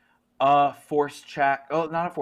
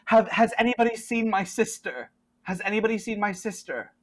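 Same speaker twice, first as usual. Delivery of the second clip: lightly voiced higher character voice; a light, higher-voiced worried question; Rebecca; 6 semitones higher, 3 dB quieter than usual. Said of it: "Rebecca is like".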